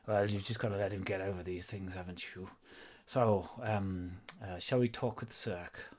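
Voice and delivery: light pseudo Welsh lilt; a hint of a Welsh dwarf; Welsh accent. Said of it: "in that kind of pseudo Welsh voice".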